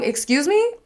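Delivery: high, incredulous call down a hallway; retold yell. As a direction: imitate yelling back, rising to a loud question. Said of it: "I yelled down the hallway".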